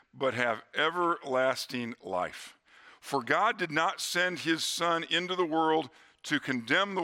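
slow, solemn Bible reading; scripture reading. Acted. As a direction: read each word as sacred. Reads John three sixteen.

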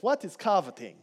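light mock Transylvanian vampire accent. Preacher retelling the vampire in his kids' song, mock Transylvanian accent. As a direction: ask it like a hammed-up Transylvanian count. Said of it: "singing along in a Transylvanian accent".

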